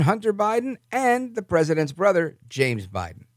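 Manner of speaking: emphatic read of a news report; news article read-aloud. Acted. Host reading a Yahoo News article to listeners, emphatic news read.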